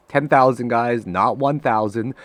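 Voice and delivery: laughing it off. Real, not acted. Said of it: "I'm mad now".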